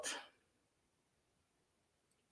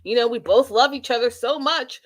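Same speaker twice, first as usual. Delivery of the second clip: nervous fumbling; 4 semitones higher than usual. Retold or imitated. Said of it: "he gets all nervous, uh, loses his train of thought".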